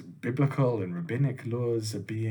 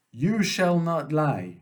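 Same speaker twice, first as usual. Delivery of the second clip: slow, raised commandment; God commanding Moses; 3 semitones higher, 3 dB louder, slower than usual. Acted. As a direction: lay down the law to one listener, slowly. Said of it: "I'm going to say".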